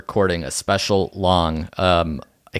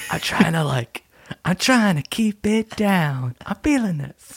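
higher, hushed but excited; shy and amped; 8 semitones higher than usual. Real, not acted. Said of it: "you're yelling a little bit".

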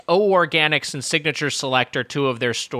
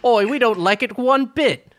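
higher, slow, huffy Cockney; mock British accent; 8 semitones higher than usual. Co-host agrees as an offended Brit, huffy British accent. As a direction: drag it out like an indignant Brit.

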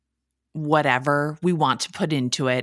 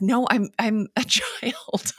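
laughing; 6 semitones higher, slower than usual. Real, not acted. Laughing at memory.

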